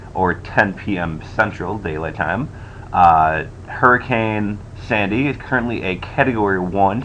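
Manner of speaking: recorded on a poor laptop mic; cheap usb mic. Real, not acted. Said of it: "I apologize for the, uh, microphone quality".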